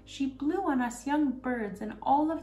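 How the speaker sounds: high, slow bird voice cooing its tale; a wood pigeon cooing its news. Acted. Wood pigeon tells the robber girl about Kay, high cooing bird voice.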